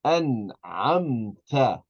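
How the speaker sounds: "An'amta" very slow, the n clear before the ayn; full noon. Shown as a demonstration. Teacher models noon before ayn, slow "An'amta" with a full n. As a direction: draw out "An'amta" syllable by syllable, n fully sounded. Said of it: "we're going to pronounce the noon".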